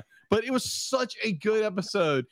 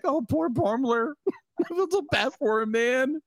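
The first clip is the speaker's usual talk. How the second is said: mock pity; 6 semitones higher than usual. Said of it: "I'm like".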